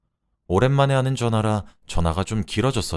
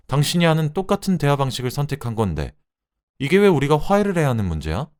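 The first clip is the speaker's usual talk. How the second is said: higher-pitched scornful challenge; indignant retort; 5 semitones higher than usual. Acted. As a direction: push back on your husband's peace offer. Wife rejects husband's reconciliation. (따져 묻는 말투)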